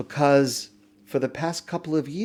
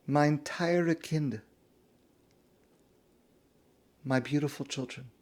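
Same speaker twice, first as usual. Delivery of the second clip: tender Yiddish words; 5 dB quieter than usual. Retold or imitated. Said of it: "in Yiddish".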